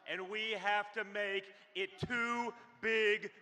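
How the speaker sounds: urging voters, punching the last word; rally speech. Acted. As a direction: push them to the polls.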